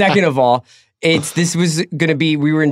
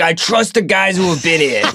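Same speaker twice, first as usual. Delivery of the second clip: football coach voice; 3 semitones higher than usual. Retold or imitated. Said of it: "That's a good football coach voice".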